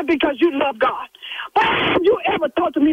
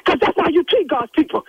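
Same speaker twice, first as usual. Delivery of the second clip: rising, higher and sharper as she scolds; real scolding; 5 semitones higher than usual. Real, not acted. Church secretary scolding the rude caller, heated higher-pitched rebuke. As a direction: put him in his place, heated.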